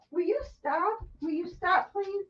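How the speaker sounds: soft, high-pitched plea; pleading with pet. Real, not acted. Owner breaks off talking to plead softly with the dog. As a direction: quietly implore the dog, voice lifted.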